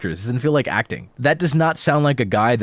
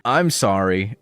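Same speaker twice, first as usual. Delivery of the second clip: "I'm" stressed over "sorry"; imitated misplaced stress; 3 semitones lower, slower than usual. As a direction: copy a read that leans on "I'm" before "sorry". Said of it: "the pitch on sorry should have gone up".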